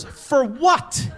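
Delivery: high, baffled question; puzzled wife voice. Retold or imitated. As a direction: squeak it out, confused. Wife's puzzled question, acted.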